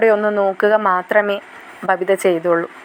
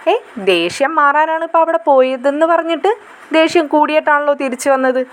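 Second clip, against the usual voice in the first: teasing little sister; 5 semitones higher than usual. Acted.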